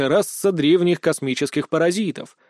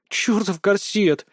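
sighing curse; 4 semitones higher, slower than usual. Acted. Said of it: "вздохнула Машуня".

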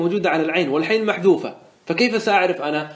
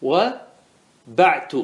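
slow stretched; much slower than usual. Shown as a demonstration. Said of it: "قلت".

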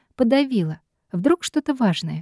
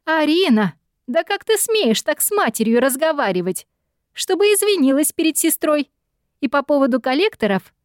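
yelling mother; 7 semitones higher than usual. A narrator's reading. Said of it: "снова закричали".

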